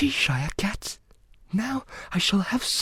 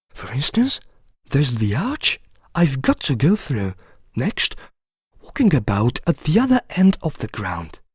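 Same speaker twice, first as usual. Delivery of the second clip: high, plaintive account; complaining; 6 semitones higher than usual. A narrator's reading. Alice telling the cat about the game, complaining. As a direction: list grievances in a higher, fussy voice. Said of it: "in rather a complaining tone".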